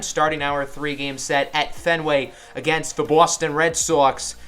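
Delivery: put-on light Boston accent, dropped r's; a hint of a Boston accent. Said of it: "I won't do a Boston accent again".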